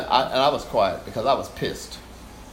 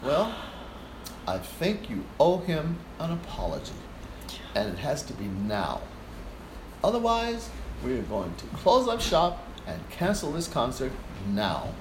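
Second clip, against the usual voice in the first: softer, measured and steady; calm firm Fred; 6 dB quieter than usual. Retold or imitated. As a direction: quietly lay down the law. Fred calmly confronts conductor.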